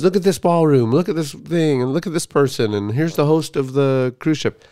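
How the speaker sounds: eager dad showing pictures. Retold or imitated. Dad showing son his cruise pictures, lightly voiced eagerness. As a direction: run through the list like a keen dad. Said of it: "he would always show me pictures".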